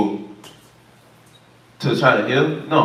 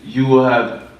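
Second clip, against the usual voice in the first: lightly put-on fortune-teller voice with measured pauses; imitation psychic giving a reading; mock fortune teller; slower than usual. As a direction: pretend to read the future, pausing between phrases. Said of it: "Somebody like to do fortune telling".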